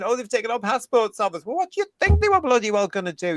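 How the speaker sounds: mocking whine. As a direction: mimic a self-pitying activist. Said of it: "they're crying".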